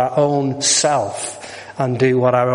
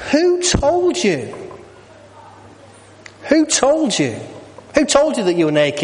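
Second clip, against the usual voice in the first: God asking; 10 semitones higher than usual. Acted. God questions Adam and Eve.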